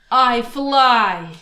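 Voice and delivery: loud, proud declaration; proud exclaim. Acted. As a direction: announce it with pride. Boastful mosquito climax.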